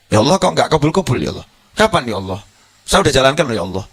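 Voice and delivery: a quick, half-mock complaint to God; impatient whining prayer. A believer nagging God for answers, mock whining. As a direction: hurry the plea like a frustrated believer.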